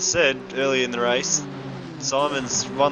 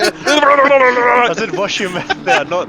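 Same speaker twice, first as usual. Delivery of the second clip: higher and louder, a hammed-up scold; mock scolding; 10 semitones higher, 8 dB louder, much slower than usual. Co-host scolds Trev for his language, loud and hammed-up. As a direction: scold him like a stern parent, half joking.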